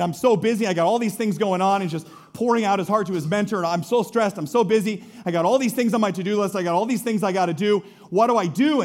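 hurried, stressed-out venting; mock frazzled. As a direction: rattle off the worries like a frazzled man. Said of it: "just stressing out and freaking out".

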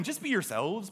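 lightly put-on Scottish accent; mock Scottish accent. God speaking to the congregation this morning, mock Scottish accent. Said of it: "because God is Scottish or something".

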